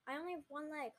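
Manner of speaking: exasperated complaint; annoyed. Acted. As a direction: object with irritation, starting loud. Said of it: "Hunter said, annoyed".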